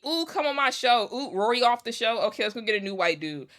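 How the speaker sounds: high, sing-song mock of an eager host; a hammed-up high gushing host voice; mocking podcast host. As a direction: parody a fawning host chasing guests. Mocking podcasters inviting white guests.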